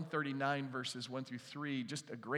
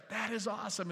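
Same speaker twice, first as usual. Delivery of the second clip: cheering dad; 7 semitones higher than usual. Retold or imitated. Dad cheering son at match.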